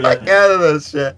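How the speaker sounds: helpless laughter; laughing. Real, not acted. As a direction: crack up mid-sentence. Laughing at the AI dub.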